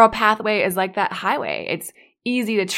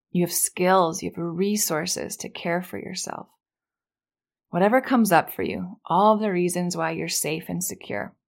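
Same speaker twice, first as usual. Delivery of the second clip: guided meditation. Acted. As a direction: let each reason sink in gently. Guided safety reflection.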